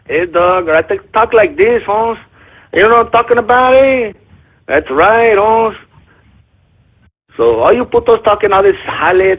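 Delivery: hammed-up Chicano cholo accent, lilting line ends. Shown as a demonstration.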